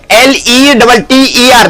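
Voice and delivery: letters एल ई डबल टी ई आर spelled slowly; slow spelling out. Shown as a demonstration. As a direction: dictate the spelling to the class. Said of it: "उसके बाद letter".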